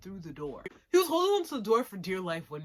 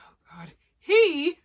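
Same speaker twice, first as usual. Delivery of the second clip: high squeal; 9 semitones higher, 14 dB louder than usual. Real, not acted. Flustered outburst about Akira.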